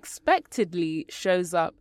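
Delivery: talking with a retainer in; words slightly blurred by retainer; wearing a retainer. Real, not acted. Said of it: "sorry, I've got my retainers in today".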